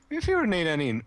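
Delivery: squeaky adolescent-style voice break; voice cracking. Real, not acted. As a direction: voice breaking suddenly high. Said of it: "unbroke itself temporarily there".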